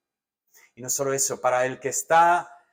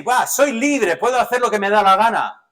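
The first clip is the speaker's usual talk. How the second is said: higher and louder, a fast cocky brag; mock carefree boast; 6 semitones higher, 6 dB louder than usual. Preacher mimicking believers who abuse grace, a mock cocky brag. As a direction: toss it off like someone who thinks anything goes.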